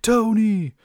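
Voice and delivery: high, loud anguished yell of a name; Spider-Man yelling out in shock; yelling Tony. Retold or imitated. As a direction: scream his name as he's hit. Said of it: "you just hear Spider-Man yelling".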